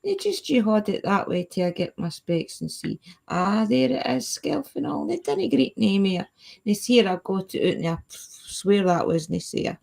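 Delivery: reciting a Scots poem with a lightly broad lilt; Scots poem recital. Shown as a demonstration. Reciting his award-winning Scots poem for the chat, lightly sing-song. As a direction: say the poem like a proud schoolboy reciter. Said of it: "I'll say it for yous".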